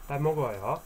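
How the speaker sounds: "Bat mogoyo" in a careful Korean accent; good Korean accent. Shown as a demonstration. Teacher showing the polite form to learners, Korean accent. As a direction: try your best Korean accent. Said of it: "with my good Korean accent".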